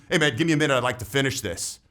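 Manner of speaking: steady and firm, falling at the end; confident, unhurried request that expects no argument; strong tonality. Shown as a demonstration. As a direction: state it calmly, like it's already decided. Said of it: "Do you hear the difference?".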